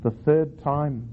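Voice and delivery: slow, deliberate Bible reading; unhurried storytelling from scripture. Shown as a demonstration. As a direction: read the verse aloud with measured weight. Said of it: "I'll read the whole verse".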